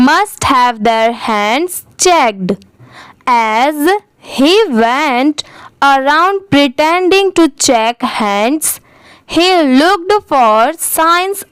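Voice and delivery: very slow, word by word, pausing at every phrase; slow model reading. Shown as a demonstration. Teacher reads the paragraph aloud for students, very slow and deliberate. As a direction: read each chunk slowly so learners can follow.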